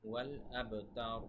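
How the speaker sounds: হুয়াল আবতার slow, the b released with a small bounce; slow down and echo the b of আবতার; qalqalah. Shown as a demonstration. Teacher repeats the qalqalah for students, bounced b in আবতার. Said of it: "এখানে কলকলা হবে".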